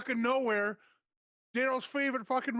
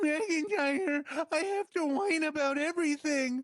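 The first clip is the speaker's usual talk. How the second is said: whiny Drew McIntyre; 4 semitones higher than usual. Retold or imitated. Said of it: "I'm Drew McIntyre".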